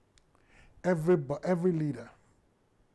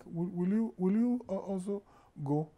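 a higher, pleading question; plaintive; 5 semitones higher than usual. Retold or imitated. Jesus plaintively asking his disciples if they'll leave. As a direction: gently beg them to stay, lightly voiced. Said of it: "I see it more as a plaintive statement".

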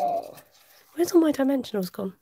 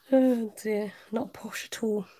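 whisper; slower than usual. Real, not acted. Whispered aside after posh remark.

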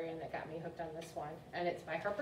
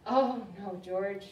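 louder, drawn-out oh no; mother's dismay; 6 dB louder, much slower than usual. Acted. Mother correcting George, mild storybook dismay. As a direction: scold the puppy lightly.

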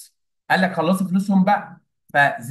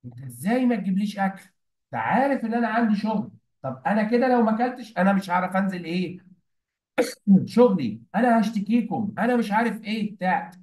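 lightly voiced self-important customer, pitched higher; acting important; 5 semitones higher than usual. Hotel guest demanding food from the waiter, mock-important protest. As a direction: complain like someone playing the big man. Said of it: "هنا بقى لعب الدور".

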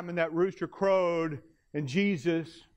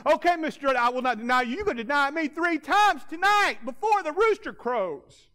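high, loud firm reply; Jesus answering boastful Peter, high and firm; 10 semitones higher, 5 dB louder than usual. Acted. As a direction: set him straight firmly. Preacher voicing Jesus' reply.

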